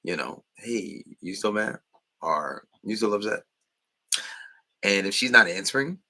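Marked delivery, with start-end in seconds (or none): 0.6-3.4 easy, unbothered check-in; relaxed question, no neediness; calm plain asking. Shown as a demonstration. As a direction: ask it casually without pleading. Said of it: "I still would do something like that".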